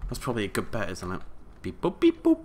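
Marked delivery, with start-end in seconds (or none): 1.6-2.4 high beeping robot voice. Pretend. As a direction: chirp it like a little robot. Hacking a computer, robot noises.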